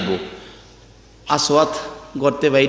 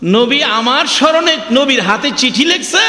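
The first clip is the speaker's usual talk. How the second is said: rising, astonished question to her father; lightly acted amazement, pitch climbing; startled daughter; 5 semitones higher than usual. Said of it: "মেয়েটা চমকে উঠছে".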